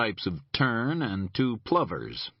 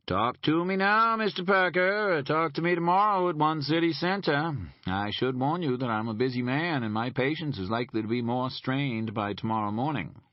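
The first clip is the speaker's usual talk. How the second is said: stern agent; 5 semitones higher than usual. Acted. Boone presses Parker on phone.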